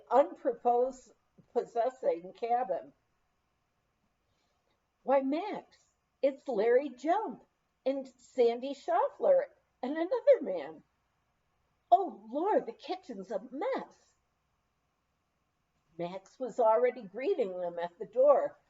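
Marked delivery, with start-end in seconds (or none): 5.0-14.1 flustered surprise. Retold or imitated. Visitors arrive, kitchen messy.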